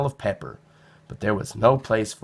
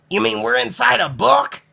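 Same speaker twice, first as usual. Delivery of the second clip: high, louder, thrilled question; can't believe it's real; boy discovering they're inside a book; excited boy; 12 semitones higher, 5 dB louder than usual. A narrator's reading. Nicholas thrilled.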